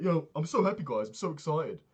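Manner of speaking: sister's boyfriend faking huge happiness, mock elated; mock overexcited. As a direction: imitate the moody boyfriend gushing with joy. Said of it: "super bipolar this day".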